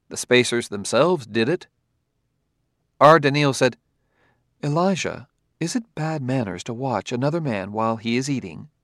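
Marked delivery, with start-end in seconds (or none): 4.6-8.7 lightly voiced robot, softly curious; a hint of a formal android asking innocently; gentle, precise robot question; polite robot. Robot asks a naive question.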